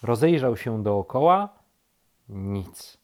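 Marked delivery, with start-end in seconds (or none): none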